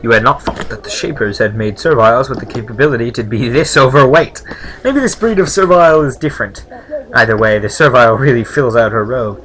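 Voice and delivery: game text read out clearly; story narration. A narrator's reading. Reads game narration aloud.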